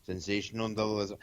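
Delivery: stumbling over "sensationalism" with extra syllables; tongue-tied. Real, not acted. Guest cannot get the word out, tongue-tied "sensationalism". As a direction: trip through the middle of "sensationalism". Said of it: "I can't speak today".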